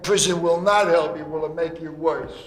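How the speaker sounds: ordinary talk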